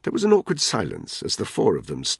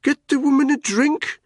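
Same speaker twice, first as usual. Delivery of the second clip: much higher and louder call; grinning announcement; 6 dB louder than usual. Acted. Tony calls for a drink for the woman, loud and pleased. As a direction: shout it across the yard pleased. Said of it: "he announced".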